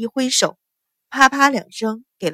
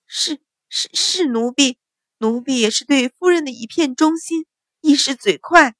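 frightened stammer; 5 semitones higher than usual. Acted. Maid stammers after being slapped.

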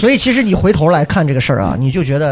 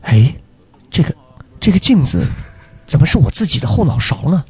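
Baoji accent. Shown as a demonstration. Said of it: "口音有时候就会把恐怖的画面直接撕掉".

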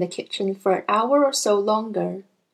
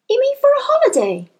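gentle teacher voice; 4 dB louder, faster than usual. A narrator's reading. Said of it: "Miss Honey asked".

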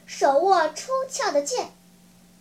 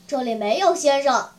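coldly acted rebuff; mildly frosty reply; icy; 3 semitones lower than usual. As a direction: turn the plea down coldly. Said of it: "冷冰冰地回答说".

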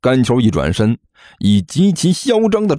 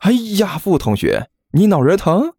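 solicitous, higher-pitched question; concerned; 10 semitones higher than usual. Acted. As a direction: fuss over a classmate, a touch hammed-up. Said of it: "一脸关心地问道". (一脸关心地询问)

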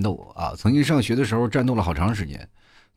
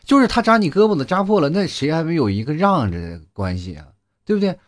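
mock angry teacher; 4 semitones higher than usual. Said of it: "那老师就生气了".

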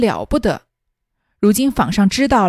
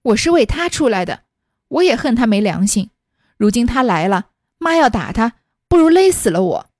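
brazen desperate plea. Acted. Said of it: "老着脸和他母亲道".

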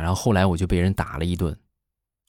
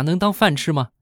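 scornful parent; 9 semitones higher than usual. Retold or imitated. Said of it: "是不是就会训斥一顿啊？".

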